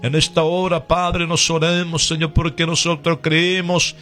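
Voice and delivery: earnest, rhythmic intercession in short phrases; fervent prayer. Real, not acted. Radio preacher praying for the sick, fervent prayer. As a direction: plead with God in a steady, insistent cadence.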